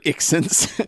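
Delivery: "accents" said as "ik-sents"; mock accented pronunciation. Shown as a demonstration. Reader moving on with the joke, "accents" as "ik-sents". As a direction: say "accents" with "ik" as first syllable. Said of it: "it's pronounced".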